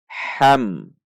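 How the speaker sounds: "Ham" with a clear, unprolonged m; clear izhar. Shown as a demonstration. Teacher showing izhar, "Ham" with a clear short m. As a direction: say "Ham" plainly, no hum on the m. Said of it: "Dibaca jelas".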